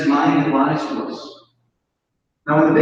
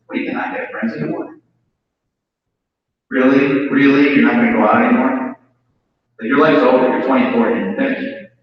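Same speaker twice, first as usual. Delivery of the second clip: mocking inner voice; 3 semitones lower than usual. The alcoholic mind taunting him, mock scornful voice. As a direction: taunt yourself like your own head does. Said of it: "Here's what it said to me".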